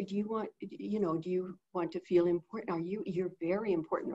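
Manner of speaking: soft, reassuring talk to a lonely pet; softly comforting a lonely pet; reassuring an animal. Shown as a demonstration. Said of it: "I would talk to the animal and say".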